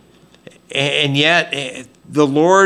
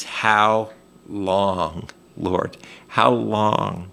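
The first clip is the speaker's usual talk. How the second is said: plaintive cry; 5 semitones lower, 6 dB quieter, much slower than usual. Retold or imitated. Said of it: "the cry of God's people".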